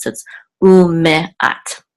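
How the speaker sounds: "umeat" said slowly with every syllable sounded; careful pronunciation. Shown as a demonstration. Teacher giving the checked pronunciation, said carefully. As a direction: pronounce "umeat" in full, u-me-at. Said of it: "two audio Torah sources".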